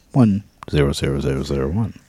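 robot saying binary. Acted.

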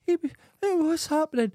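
very high, put-on startled voice; mock alarmed bewilderment. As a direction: replay your confusion in a high squeak. Reenacting alarm at own house on TV.

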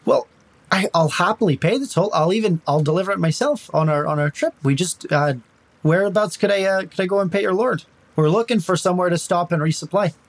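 a hint of Irish, feeling out the guards; Irish accent. Tiri bargains in character.

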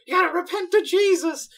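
put-on high, loud preachy girl voice; goody-goody Christian girl. Imitating the Christian girl character, high preachy squeal. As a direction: play the goody-two-shoes girl urging repentance. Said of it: "she talks about".

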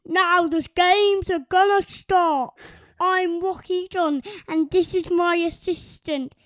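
put-on child's announcer voice; sports announcer voice. Shown as a demonstration. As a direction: announce the start of the games. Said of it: "let you hear his version first".

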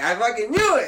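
loud, high cry of frustration; vexed outcry. Acted. Man just missed by someone walking in, crying out vexed. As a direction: burst out as if proved right.

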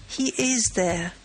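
slow, hollow and grave; hollow, as if from far off. Acted. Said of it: "said Beautrelet in a hollow voice".

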